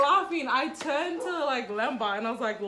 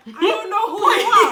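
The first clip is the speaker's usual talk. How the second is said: laughing protest; 7 semitones higher, 12 dB louder than usual. Retold or imitated. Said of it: "And I'm like".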